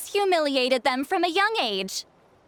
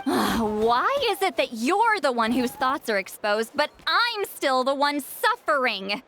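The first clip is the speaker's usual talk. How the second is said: exasperated sigh. Acted. Sighs at unfair situation.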